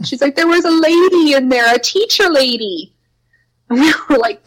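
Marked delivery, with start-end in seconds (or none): 0.4-2.9 put-on much higher, childlike insistence; little girl voice. Little girl describing the ghost to teachers, higher and childlike.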